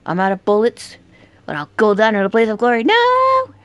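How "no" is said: high, loud cry of defeat; real despairing yell; anguished scream. Real, not acted. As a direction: scream as you go down. Dying in game.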